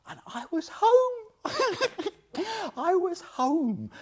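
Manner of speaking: moved. Real, not acted. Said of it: "I'm moved now".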